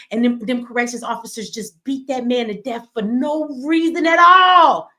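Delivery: builds to a loud cry of outrage on at all; rising outrage. Real, not acted. Telling followers about a prisoner beaten to death, bursting loud. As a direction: let it explode at the end. Outrage over a fatal beating.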